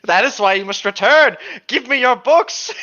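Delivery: put-on high, slowed, looming old lady; creepy librarian voice.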